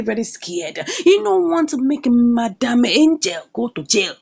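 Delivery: usual speaking voice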